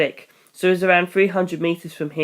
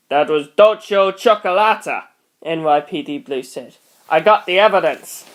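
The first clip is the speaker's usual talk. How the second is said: a touch of a cop voice, louder; stand voice; 4 dB louder than usual. Acted. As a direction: report dryly like a cop. Voicing NYPD Blue.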